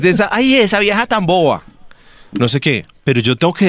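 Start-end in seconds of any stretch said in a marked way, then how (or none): 0.3-1.6 mock disdain. Voicing detractors of the celebrity.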